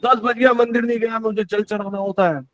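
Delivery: retold annoyance. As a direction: replay a scolding of mother. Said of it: "इतना गुस्सा करता था कि". (हल्के गुस्से की नकल)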